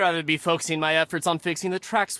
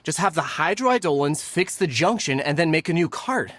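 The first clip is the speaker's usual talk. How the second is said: irritated; 2 semitones higher than usual. Acted. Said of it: "They started arguing the moment they saw each other".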